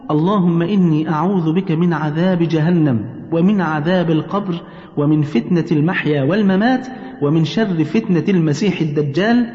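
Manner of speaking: slow, drawn-out prayer phrases; supplication recitation. Shown as a demonstration. Teaching mother what to say before the salam, slow recitation. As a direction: recite the supplication slowly and deliberately.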